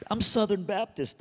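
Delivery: high, loud declaration of faith; mock proud buddy. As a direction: announce it like big news. Buddy's proud reply, acted.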